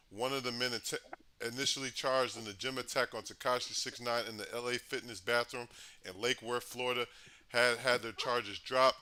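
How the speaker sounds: reading out a news report. Acted. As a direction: read it like a news update. Reads news update.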